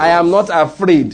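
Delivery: slow, emphatic declaration; like you mean it. Shown as a demonstration. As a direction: declare it firmly, stretching the words. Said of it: "do it like you mean it".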